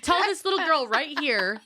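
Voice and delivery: emphatic demand, starting high; mock confrontational. Confronting a voter before the niece, mock indignant demand. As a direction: demand it, high then settling.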